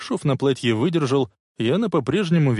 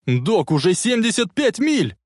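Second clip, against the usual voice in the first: high, urgent warning yell; 9 semitones higher than usual. A narrator's reading. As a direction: holler the speed in alarm. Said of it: "заорал Марти". (тревожный крик во весь голос)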